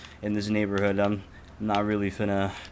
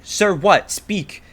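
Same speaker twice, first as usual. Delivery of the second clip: higher, louder retold command; like to a dog; 10 semitones higher, 8 dB louder, much slower than usual. Pressing the silent lady for an answer: harsh commanding. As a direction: order her to speak like a pet. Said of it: "I was speaking to her like a fucking dog".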